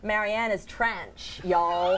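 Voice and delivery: mock Canadian accent. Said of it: "A Canadian accent?".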